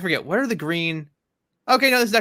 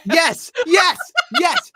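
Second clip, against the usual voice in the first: excited agreement; 14 semitones higher, 8 dB louder, much slower than usual. Real, not acted. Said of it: "excited agreement".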